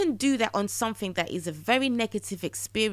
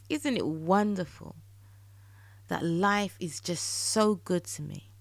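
wonder-filled affirmations. Shown as a demonstration. Podcaster showing listeners the better affirmation, delighted and savoured. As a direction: savour each line as if it already came true. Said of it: "when you say these affirmations, it invokes a different feeling".

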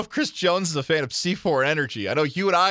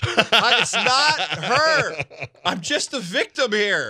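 slow, higher mocking whine; higher, slow mimicking whine; mock victim voice; 6 semitones higher, 4 dB louder, much slower than usual. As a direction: parody his plea, drawn out. Mocking the cohost's line.

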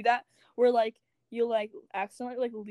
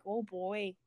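lightly voiced Jersey mom accent, softer; 5 dB quieter than usual. Shown as a demonstration. Showing a friend her habit, light Jersey mom accent. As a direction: slip briefly into a Jersey mom. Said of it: "speaking like a Jersey mom".

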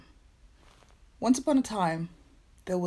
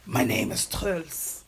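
slow breathy seductive man; slow, hushed seductive intro; sultry perfume ad; 2 semitones lower, slower than usual. Acted. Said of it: "his deep, sultry voice".

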